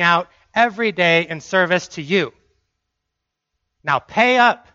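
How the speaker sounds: a hint of a bargaining son building to pay up; lightly voiced self-righteous demand; entitled believer. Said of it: "To say".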